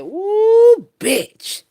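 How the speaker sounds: high squealed ooh then a dropped bitch; shocked ooh. Retold or imitated. Retelling her own shocked reaction to the news, high squeal. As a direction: gasp it out, scandalized.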